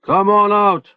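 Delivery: high, loud challenging yell; Manny yelling a challenge at the wall. A narrator's reading. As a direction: dare them to come out. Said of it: "Manny was yelling".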